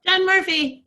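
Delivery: loud, high, bright game show name call; game show announcer. Real, not acted. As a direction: announce your name like a prize winner. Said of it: "cute, like, game show ring to the way you say your name".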